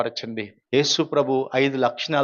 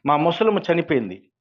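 ordinary delivery

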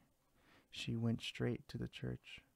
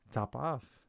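coolly offhand, a bit louder; 3 semitones higher, 5 dB louder than usual. Acted. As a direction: toss the name off coolly. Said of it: "said the cat quite coolly".

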